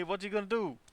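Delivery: high, soft character voice; high put-on voice. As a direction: squeak it out in character. Playing Tony in skit.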